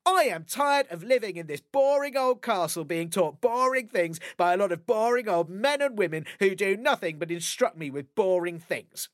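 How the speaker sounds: cartoon princess. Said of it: "said the princess".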